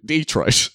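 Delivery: "Detroit" with a stressed DEE; DEE-troit pronunciation. Shown as a demonstration. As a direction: say "Detroit" as DEE-troit, first syllable long. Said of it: "that's how you say Detroit".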